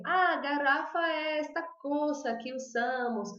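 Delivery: slow, simple Spanish describing the word; Spanish explaining. Pretend. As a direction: explain in careful Spanish to a waiter. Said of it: "você fala assim".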